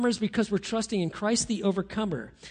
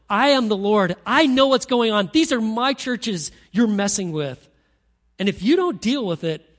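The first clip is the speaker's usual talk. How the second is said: Jesus warning the churches; 2 semitones higher, 7 dB louder than usual. Acted. Jesus warning churches tolerating sin, loud commanding voice. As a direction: thunder it out as the Lord laying down the law. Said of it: "he wants all the churches to know".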